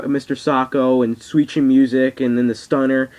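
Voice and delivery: ordinary talk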